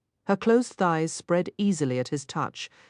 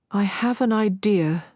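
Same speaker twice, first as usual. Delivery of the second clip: breathless; 4 semitones higher than usual. Acted. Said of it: "Merritt said breathlessly".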